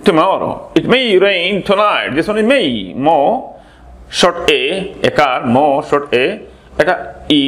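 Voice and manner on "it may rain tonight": It may rain tonight, said slowly word by word; slow model sentence. Shown as a demonstration. Teacher slowly models the sentence for students. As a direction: spell it out slowly for learners. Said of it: "teacher repeats it slowly".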